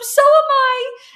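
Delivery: mock screaming. Retelling her own reaction to a friend's pregnancy news: retelling her own scream. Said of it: "start screaming so loud".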